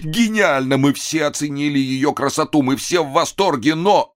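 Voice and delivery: gushing praise. Acted. Flattering praise of the performance.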